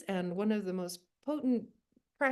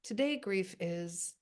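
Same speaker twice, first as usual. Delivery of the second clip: the prompt again, slow and deliberate; slow prompt reading; slower than usual. Shown as a demonstration. To the group, repeating the prompt slowly before they write. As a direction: let the group hear each word of it. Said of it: "put into the chat bar right now that little prompt".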